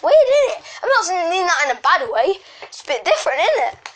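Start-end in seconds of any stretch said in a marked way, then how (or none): 0.0-0.6 laughing. Real, not acted. Laughing at his own point.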